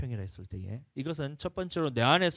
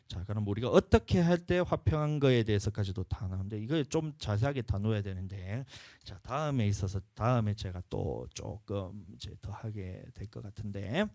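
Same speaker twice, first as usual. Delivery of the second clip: ordinary delivery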